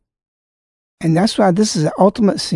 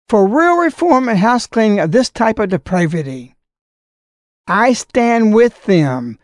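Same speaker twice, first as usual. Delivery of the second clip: formal letter reading; 2 semitones higher than usual. Acted. Reads bishop's letter aloud.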